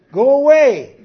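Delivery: a preacher voicing Jesus sternly; commanding shout. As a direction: order the mourners out with force. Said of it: "he said".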